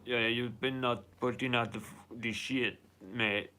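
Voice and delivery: attempted Austrian accent, lightly put on; loose, fumbled Austrian accent; Arnold Schwarzenegger. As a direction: have a half-hearted go at an Austrian accent. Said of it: "in the Arnold Schwarzenegger accent".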